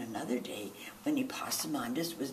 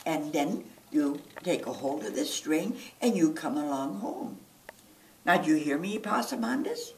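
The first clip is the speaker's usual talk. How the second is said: scolding mama. Acted. Mama instructing son.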